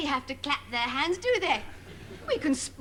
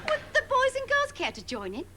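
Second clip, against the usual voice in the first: higher, sing-song address to the kiddies; kids' TV presenter; 9 semitones higher, faster than usual. Acted. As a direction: ask the boys and girls like a patronising host. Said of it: "parody of these children's T V shows".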